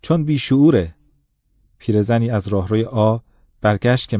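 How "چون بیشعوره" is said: loudly pointed remark. Acted. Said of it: "خیلی رساتر از آن که احتیاج باشد گفت".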